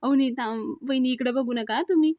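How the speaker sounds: a touch of panic in a narrated quote; alarmed. Acted. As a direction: act out a startled plea. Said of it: "घाबरतो आणि म्हणतो".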